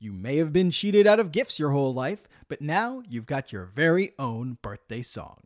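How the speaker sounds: upbeat ad read, salesman voice; infomercial. Acted. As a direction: pitch it like a cheesy TV ad. Sponsor ad read on podcast.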